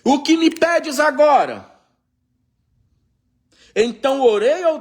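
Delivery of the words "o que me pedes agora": king demanding. Acted. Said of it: "E disse o rei".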